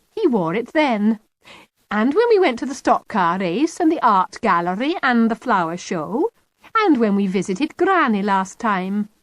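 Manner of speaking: Kitty's voice. Acted. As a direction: needle Mum with cheerful hints.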